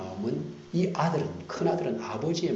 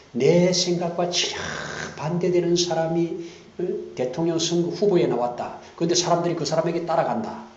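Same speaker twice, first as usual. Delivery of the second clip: mock frustration; 7 semitones higher, 5 dB louder than usual. Mimicking angry frustration.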